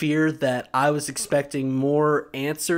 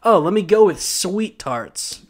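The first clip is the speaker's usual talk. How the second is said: higher, prissy treat-buyer; mock a candy lover; mocking sweet-tooth voice; 5 semitones higher than usual. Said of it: "a single person who goes out and is like".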